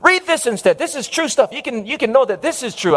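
acted-out impatient correction; insistent son. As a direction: press it on dad as the better choice. Son presses atlas on father.

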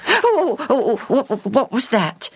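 put-on very high, startled young girl's cry; startled little girl. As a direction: jump in fright as a little girl. Evie startled by a visitor.

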